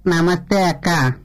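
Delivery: coy, shy candidate asking for votes; candidate character. Acted. (సిగ్గుపడే అభ్యర్థి పాత్ర, మెల్లగా)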